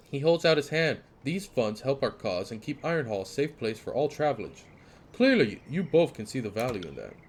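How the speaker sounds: lightly voiced polite soldier; a hint of a smug toll guard; smooth guard. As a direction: greet with a courteous edge.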